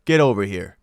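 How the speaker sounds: called out order. Retold or imitated. Cop summoning the smoking teen, loud call. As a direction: cop calling a kid over, loud and curt.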